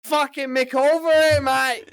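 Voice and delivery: high, loud, drawn-out exasperation; loud comic griping; mock fed-up rant. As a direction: imitate an Aussie workmate at the end of his rope. Acting out fed-up coworker.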